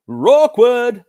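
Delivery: high, loud laughing word. Acted. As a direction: laugh it out at the awkward moment. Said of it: "laughed Roars".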